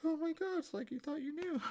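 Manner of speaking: high, loud mocking exclamation; exaggerated high-pitched mockery; mock exasperation. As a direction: sneer it up high like they're know-it-alls. Mock exasperation at smug people.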